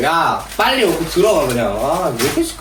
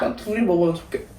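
느릿하고 작게, 얌전한 말투; 오빠에게 피곤한 척 나긋나긋하게; 내숭 전화 목소리; 6 dB quieter than usual. Real, not acted. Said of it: "원래 평소에 목소리 걸걸하잖아". (평소와 다른 조용한 내숭 목소리)

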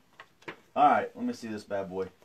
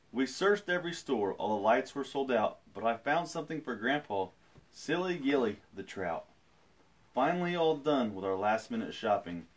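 storytelling. A narrator's reading. Reads picture book aloud.

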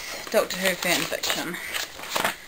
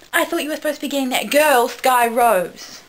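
Rose; 5 semitones higher, 6 dB louder than usual. Acted. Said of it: "Rose said".

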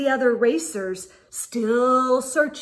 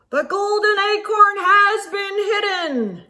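high, loud singsong announcement; judge yelling; 7 semitones higher, 5 dB louder than usual. Acted. The judge announcing the race to the racers, loud proclamation. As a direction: proclaim it to the whole forest. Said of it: "the judge yelled".

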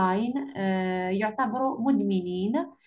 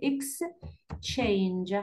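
Exchange with the first syllable stressed; 2 semitones lower, 4 dB quieter than usual. Shown as a demonstration. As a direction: split Exchange slowly, marking EX first. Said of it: "stress يكون في ال".

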